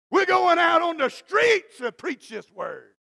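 loud, slow, shouted vision cast; bold proclamation. Retold or imitated. Pastor casting a vision to five old ladies, loud and slow. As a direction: proclaim it big. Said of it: "I said".

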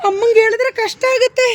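loud, projected acted line; loud demonstration for an actor; urgent call. Shown as a demonstration. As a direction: project it loudly for a child to copy. Director models line for child.

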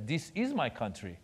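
put-on Iranian-accented mother standing her ground; firm reply in Iranian-accented English; mom's Iranian accent. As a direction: imitate mom in an Iranian accent. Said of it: "has the accent, and she talks like this".

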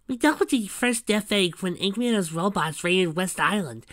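high storybook sidekick; high-voiced young hero. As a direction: recount the adventure in a high voice.

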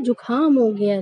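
जुकाम mispronounced as "jukhaam", breath after k; aspirated जुकाम. Retold or imitated. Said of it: "ये गलत होता है इसका उच्चारण".

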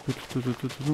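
soft, idle "tu, tu, tu" noises. Real, not acted. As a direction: fill the gap with quiet little tu-tus. Idle noises while he works.

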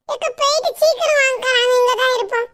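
put-on high, loud bright girlish farewell; daughter covering up. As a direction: cover the slip cheerfully.

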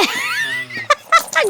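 high squealing laugh of delight; high delighted squeal of laughter. Real, not acted.

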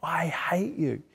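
low-voiced, slow imitation of a rumbling spirit; deep rumble. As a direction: draw it out in a hushed, rumbling mock voice. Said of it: "in this deep rumble going".

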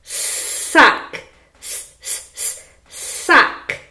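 S, s said as a breathy hiss before sock; teacher sounding out the S of sock. Shown as a demonstration. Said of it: "What sound does sock start with".

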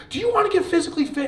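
high, loud rallying shout; pumped-up researcher. Retold or imitated. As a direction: fire up the group like a coach. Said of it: "the researcher's like".

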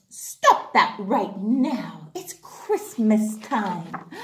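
lightly voiced stern old fish; stern Old Butter. Old Butter stopping the fight, slow and firm. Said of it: "And then Old Butter said".

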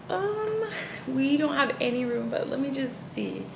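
sweet receptionist. Retold or imitated. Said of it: "She was like".

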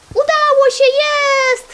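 loud, high-pitched victory shout; triumphant cheer. Real, not acted. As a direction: cry out the success high and loud. Cheers success at the puzzle.

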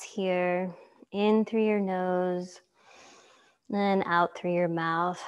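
calm yoga teacher guiding a relaxation; guided meditation. Acted. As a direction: lead them gently into stillness, unhurried.

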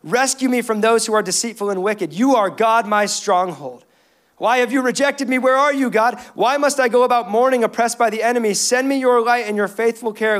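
fervent, pleading psalm reading; impassioned scripture reading. Acted. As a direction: read the psalm as an urgent plea to God. Reads a psalm aloud as a plea.

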